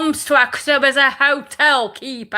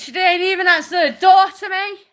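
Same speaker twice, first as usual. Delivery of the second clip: fighting back sobs while telling it; crying; 5 semitones higher than usual. Real, not acted. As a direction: voice breaking into tears, real. Recounting mum ignoring her, upset.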